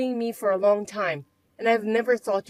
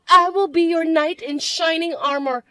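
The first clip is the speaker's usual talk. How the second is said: bratty stepsister; 7 semitones higher, 8 dB louder than usual. Acted. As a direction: drag out the taunt.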